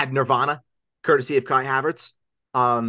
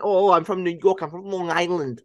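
raised, put-on New York accent; 4 semitones higher than usual. Co-host showing off his Long Island roots, New York accent. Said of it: "the New York accent".

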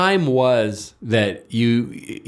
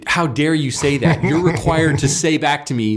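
slightly raised, affronted protest; mock indignation; 3 semitones higher than usual. Blue radical scolding the one who echoed them, indignant. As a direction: draw out "How dare you" in mock offence. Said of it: "And they say".

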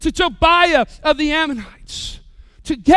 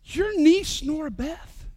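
much softer, slow confiding voice; chaperone confiding; 7 dB quieter than usual. Retold or imitated. Chaperone telling the pastor in a soft, slow confiding voice. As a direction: lean in and tell him quietly, as if a secret. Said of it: "she came up to me and said".

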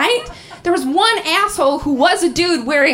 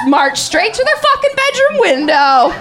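loud, rising vow to confront an ex; mock rallying shout; 9 semitones higher, 7 dB louder than usual. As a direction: declare it loudly like a battle plan. Acting out plan to confront exes.

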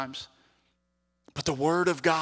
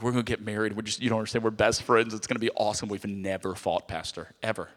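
naive engaged couple; 7 semitones lower, 4 dB quieter than usual. Retold or imitated. Couples in premarital counseling quoted.

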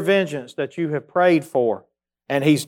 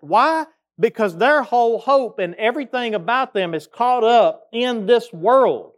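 higher-pitched, emphatic pulpit delivery; impassioned preaching; 5 semitones higher than usual. Real, not acted. Preacher urging the congregation to stand with Job, impassioned preaching. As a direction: preach it with rising and falling phrases. Preacher drives home Job's example.

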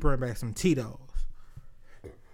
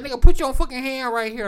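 a hint of a girlfriend voice; 9 semitones higher, 10 dB louder than usual. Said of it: "She's like".

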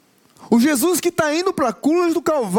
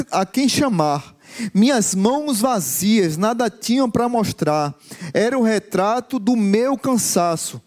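lower, measured poem-like recitation; reciting song lyrics; 3 semitones lower than usual. Acted.

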